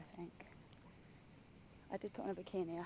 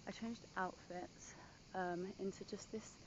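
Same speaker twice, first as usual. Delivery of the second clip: whispering; 6 dB quieter than usual. Real, not acted. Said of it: "I don't know why I'm whispering".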